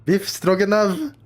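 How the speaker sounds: high, slow, incredulous repeat; squeaky mock-amazed question; mock disbelief. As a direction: drag out the name like a food you can't believe. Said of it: "Your mom's got a lot of explaining to do".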